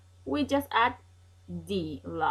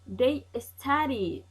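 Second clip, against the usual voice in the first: slow model sentence; 4 semitones higher, slower than usual. Shown as a demonstration. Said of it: "let's continue".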